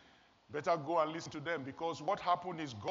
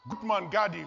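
calling out the name; 5 dB louder than usual. Retold or imitated. Holy Spirit naming him.

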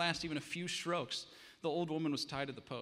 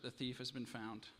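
softer, hollow and timid; 6 dB quieter than usual. Acted. Pale servant tells the king the thief is found, timid. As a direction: report it almost afraid to say it. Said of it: "his voice was timid and hollow".

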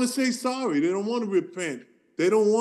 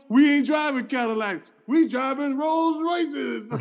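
slow laughing shout of a punchline, pitched up; stand-up punchline; 6 semitones higher, slower than usual. Pretend. Comic telling off the radio hosts, laughing and shouting. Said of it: "that's just my stand-up".

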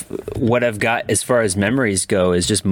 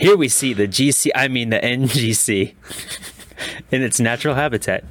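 nature documentary; 3 semitones higher than usual. Pretend. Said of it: "a documentary on the GameCube".

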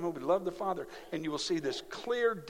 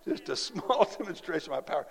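laughing repeat. Retold or imitated. Repeats God's words laughing.

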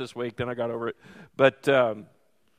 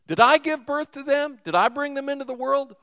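pitched-up exasperated outcry; exasperated Moses; 10 semitones higher, 4 dB louder than usual. Retold or imitated. Moses crying out to the Lord in exasperation. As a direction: let the frustration burst out at God. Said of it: "And Moses said to the Lord".

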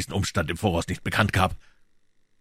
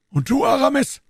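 Athos; 6 dB louder than usual. Acted. Athos voiced.

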